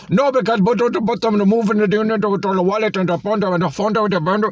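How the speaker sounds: exaggerated Indian English accent, pitched high. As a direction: mimic the cashier's Indian accent, high and insistent. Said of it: "he's got such a strong accent".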